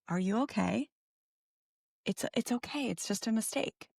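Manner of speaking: softly imitated calm parent; soft, unhurried retold comfort; calm reassurance. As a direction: reassure a child gently, voice soft. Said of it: "she was so calm and confident".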